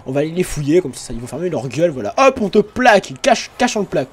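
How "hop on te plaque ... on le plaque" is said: excited. Pretend. Guards tackle a prisoner.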